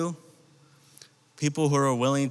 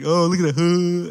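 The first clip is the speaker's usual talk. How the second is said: higher, louder acted marvel; playful mock amazement; 5 semitones higher, 5 dB louder than usual. Teen goofing off with a friend's flying slipper, playful amazement. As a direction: play up watching it sail away. Re-enacts watching the slipper fly.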